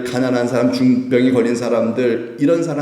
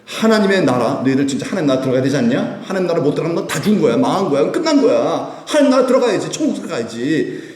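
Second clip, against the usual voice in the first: stern Jesus rebuking; 3 semitones higher than usual. Acted. Jesus voiced scolding disciples.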